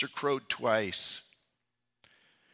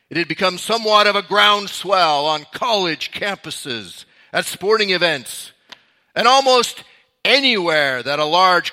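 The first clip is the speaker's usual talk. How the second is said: dramatic news anchor read, measured pace; newscaster voice; 3 dB louder than usual. Shown as a demonstration. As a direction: announce it like a vintage documentary narrator. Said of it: "let me put kind of my newscaster voice on".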